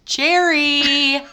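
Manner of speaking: loud call of the name. Real, not acted. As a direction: call out Jerry across the room. Calling out to Jerry.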